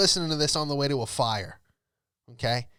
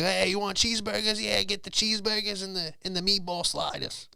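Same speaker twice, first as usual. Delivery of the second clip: higher mock drunk order; drunk firefighters; 6 semitones higher than usual. Hammered firefighters ordering sliders, mock drunk voice. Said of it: "and be like".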